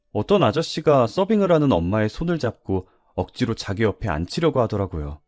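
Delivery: usual speaking voice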